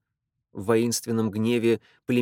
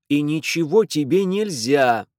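louder angry outburst; brother's yell; 4 semitones higher, 6 dB louder than usual. A narrator's reading. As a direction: shout her down. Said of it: "заорал её брат". (брат орёт, громче)

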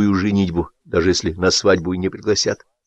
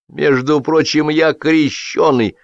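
put-on drunken confession; 6 semitones higher, slower than usual. A narrator's reading. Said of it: "пьяно признался Золотарь".

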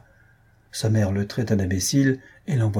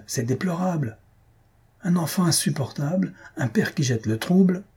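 acted outrage, pitched up; vociferating; 7 semitones higher than usual. A narrator's reading. Host scolding father and unbearable child, vociferating. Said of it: "vociférait Jujube".

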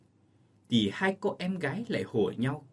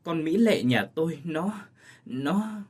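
startled; 4 semitones higher, slower than usual. Acted. Mother breaking bad news about her daughter, startled stammer. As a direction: catch your breath and falter, shaken. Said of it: "Bà Phán Lành thảng thốt".

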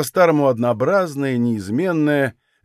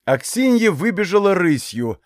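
ordinary delivery

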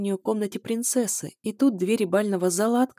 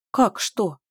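feigned surprise; 4 dB louder than usual. Acted. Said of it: "изобразила я искреннее изумление".

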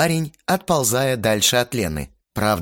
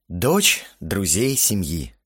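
sighing; slower than usual. Acted. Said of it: "вздохнул я".

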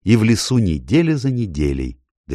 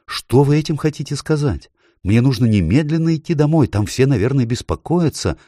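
worried; 8 semitones higher, 3 dB louder than usual. A narrator's reading. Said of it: "Ей стало страшно".

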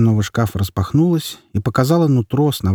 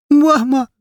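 tearful cry; 4 dB louder than usual. Acted. Boy cries out.

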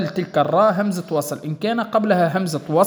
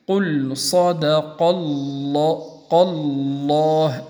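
slow chanted recitation with heavy lam in الله; Quran recitation; 2 semitones lower, much slower than usual. Shown as a demonstration. Teacher recites the verse to show the heavy lam. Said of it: "مثال قوله تعالى".

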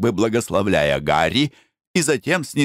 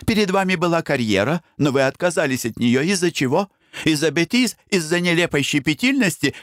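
Blanche, reproachful; 8 semitones higher than usual. Acted. Бланш упрекает Пена в отказе.

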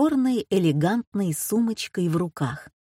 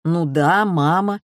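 grumbling; 4 dB louder than usual. A narrator's reading. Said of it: "проворчал".

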